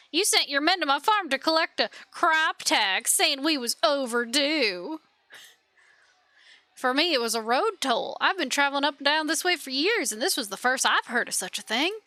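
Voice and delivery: lightly voiced Southern villager; southern accent. Villagers complaining to their ruler of taxes, in a Southern accent. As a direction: accuse with a Southern country accent. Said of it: "She hates the southern accent".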